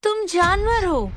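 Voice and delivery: drawn-out, high-pitched accusation; anguished outcry. Acted. Betrayed woman condemning the man who attacks her, anguished outcry. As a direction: cry it out slowly, pitched high.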